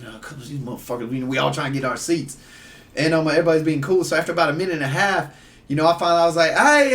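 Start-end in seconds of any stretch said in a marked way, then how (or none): 0.0-2.4 soft, quick mock grumbling; imitated grumbling crowd. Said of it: "whole crowd was kinda like". 6.5-6.9 high, loud retold holler; calling out. Calling out to men blocking steps.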